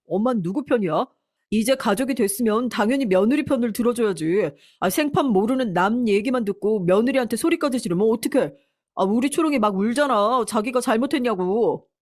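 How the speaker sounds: lightly acted indignant protest; angry son. Son blaming mother for making his wife cry, a touch of anger. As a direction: take the wife's side with mild outrage. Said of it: "화가 잔뜩 나서는".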